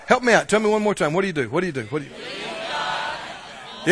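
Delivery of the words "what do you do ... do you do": each ask softer until a whisper; softer and softer, ending in a whisper; fading prompt. Acted. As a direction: pull them in by dropping to a whispered what do you do. Prompting congregation, dropping to hush.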